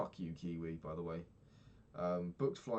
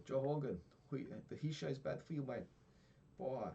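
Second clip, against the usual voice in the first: higher, lightly voiced Brazilian accent; mock Brazilian; 6 semitones higher than usual. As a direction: imitate the Brazilian guest ribbing Joe Rogan. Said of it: "shouting at Joe Rogan".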